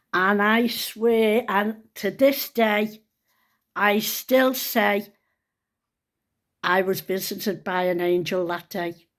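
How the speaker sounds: slow, heartfelt vow; slow and sincere. Real, not acted. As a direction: speak it slowly, from the heart. Sincere testimony of being visited.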